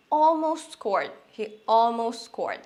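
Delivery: slow, drawn-out regret; a touch of regret; regretful. Shown as a demonstration. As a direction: lament the near miss. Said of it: "তখন বলতে পারি".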